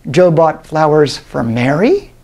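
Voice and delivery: slow, "Mary" rising at the end; stress on MARY. Shown as a demonstration. Lecturer's final variation, emphasis on "Mary". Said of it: "sometimes I'm emphasizing different words".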